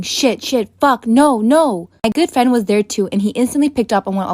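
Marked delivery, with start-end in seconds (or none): 0.0-1.9 half-contained mock panic yell; retold mock scream. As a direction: imitate screaming in alarm, only partly raised. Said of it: "started screaming".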